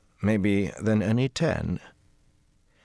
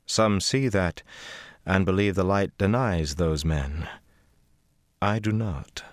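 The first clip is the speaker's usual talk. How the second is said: put-on slow, composed older woman's voice; unhurried, knowing; calm as ever; 2 semitones higher than usual. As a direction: Cadsuane telling Rand she knows his future. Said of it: "calm as ever".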